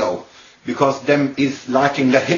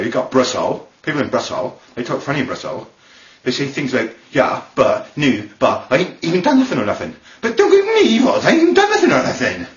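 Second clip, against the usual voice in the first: Bristol accent. Shown as a demonstration. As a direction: protest in a hammed-up Bristol accent. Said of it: "That's how they talk in Brussels".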